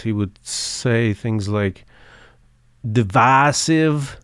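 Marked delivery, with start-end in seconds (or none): 2.9-4.2 slow, drawn-out Oklahoma "divisive"; Oklahoma accent. Retold or imitated. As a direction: stretch "divisive" like an Oklahoma radio caller. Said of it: "his accent was just excellent".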